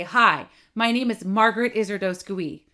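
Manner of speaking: projected straight at the listener; pointed, projected introduction; directional volume. Shown as a demonstration. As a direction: aim the words right at them. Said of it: "directional volume where I'm talking at you".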